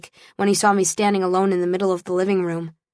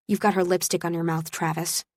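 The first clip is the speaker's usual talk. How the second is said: quiet, cold disgust, much softer; softly disgusted; 5 dB quieter than usual. Acted. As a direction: push him away with quiet contempt. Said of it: "I said, disgusted".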